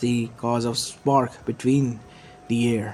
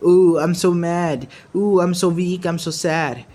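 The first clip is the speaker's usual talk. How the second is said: higher, louder mock whining; sing-song mockery, pitched up; mocking self-pity; 6 semitones higher, 6 dB louder, slower than usual. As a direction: mimic a sulking child's complaints. Naruto mimics the child's self-pity.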